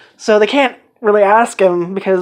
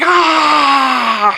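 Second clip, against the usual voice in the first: sharp yelp of sudden pain; pained cry; 6 semitones higher than usual. Retold or imitated. Chio touches the hot bike and yelps in pain. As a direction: cry out as the hot bike burns her hand. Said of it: "So she's like".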